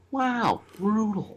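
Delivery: soft, high-pitched celebrity imitation; a quiet, high "wow" impersonation; Owen Wilson. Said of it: "That reminds me of Owen Wilson".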